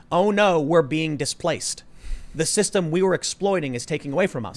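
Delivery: lightly mocked lament of the displaced; mock complaint. Host mimics media remnant losing its grip, mock complaint. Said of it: "he's the remnant of".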